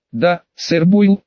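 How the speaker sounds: slow breathy swooning reply; breathy vintage purr. Acted. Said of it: "воскликнула с придыханием".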